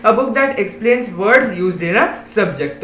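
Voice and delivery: slow, deliberate reading of a definition; slow read-aloud. Shown as a demonstration. Teacher slowly reading the dictionary definition to pupils. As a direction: spell out each word for the class. Reads second meaning aloud.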